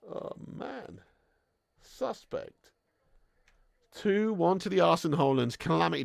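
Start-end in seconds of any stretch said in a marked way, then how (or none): 0.1-2.7 breathy whispered aside. Real, not acted. Streamer's hushed verdict on the defending, whispered. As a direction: breathe it out under the voice.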